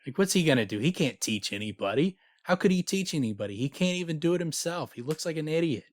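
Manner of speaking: acted-out scornful griping; mock exasperation. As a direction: argue in disbelief, pitch jumping up. Acting teachers mocking the student.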